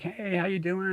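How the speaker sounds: high, light hello; mock casual greeting. Greeting the angler on the river, high and breezy. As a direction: play it breezy and polite. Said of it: "I'm like".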